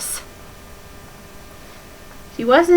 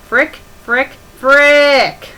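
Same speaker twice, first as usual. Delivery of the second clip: frantic cursing; 5 semitones higher, 9 dB louder, much slower than usual. Acted. Reads character's panicked outburst.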